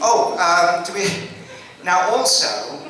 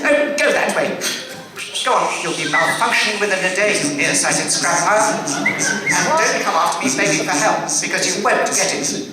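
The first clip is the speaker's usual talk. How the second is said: huffy robot. Acted. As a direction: shoo him off in a prissy huff. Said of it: "acting C-3PO scene".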